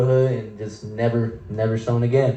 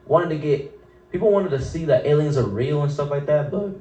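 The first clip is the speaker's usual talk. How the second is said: voice cracking; 3 semitones higher than usual. Real, not acted. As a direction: voice cracks up high mid-sentence. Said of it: "the voice crack".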